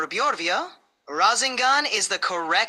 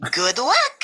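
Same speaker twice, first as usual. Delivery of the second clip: squeaky high voice; 5 semitones higher than usual. Acted. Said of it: "squeaky, high-pitched voice".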